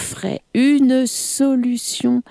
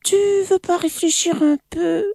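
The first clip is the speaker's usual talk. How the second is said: timid; 12 semitones higher, faster than usual. Acted. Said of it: "demanda timidement".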